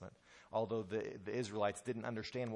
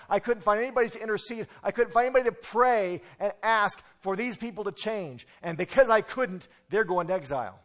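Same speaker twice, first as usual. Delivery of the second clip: voice of God; 5 semitones higher, 9 dB louder than usual. Acted. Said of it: "and he says".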